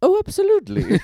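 put-on high, loud jokey Russian accent; mock Russian accent. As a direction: show off a fake Russian accent. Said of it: "That was Russian, right?".

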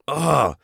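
exasperated "ugh"; frustrated groan. Retold or imitated. Frustrated at having no voice.

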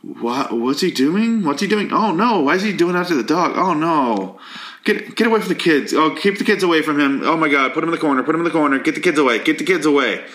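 high, rushed mock alarm; mock panic. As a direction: act out hammed-up panic at a loose cannon. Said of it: "but, like".

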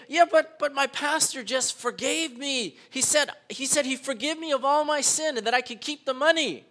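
high-pitched mock protest; indignant protest. Forgiven thief argues against arrest, indignant protest. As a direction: insist on it, pitched well up.

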